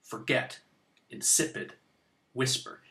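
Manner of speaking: "Forget", "insipid", "whisper" apart, stressed on -get, -sip-, whis-; correct syllabic stress. Shown as a demonstration. Teacher showing words that must be said that way, stressed syllables marked. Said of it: "say those words that way".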